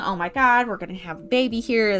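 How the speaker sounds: panicked voice losing its composure. Retelling a birth as a nurse sees the baby coming: imitating a panicking nurse. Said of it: "The nurse is panicking".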